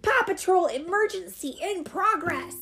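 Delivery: high, forceful pup voice; emergency announcement. Acted. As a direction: announce officially to stopped drivers.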